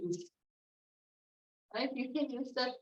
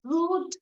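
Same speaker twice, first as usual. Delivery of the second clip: rude said high and loud; stress on rude; 5 semitones higher, 6 dB louder than usual. Shown as a demonstration. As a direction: punch rude like a rude clown. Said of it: "did you ever hear the".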